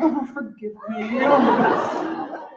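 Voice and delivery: hushed guilty moan; Irish Catholic moan. Acted. Performer demonstrating the Irish Catholic moan, hushed and guilty. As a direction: breathe it like a guilty confession. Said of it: "Irish Catholic moan".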